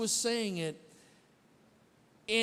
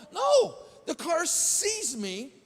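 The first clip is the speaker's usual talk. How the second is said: emphatic retelling; 6 semitones higher, slower than usual. Retold or imitated. Pastor telling the church about the car. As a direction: hammer home each word. Preacher reenacting car cutting him off.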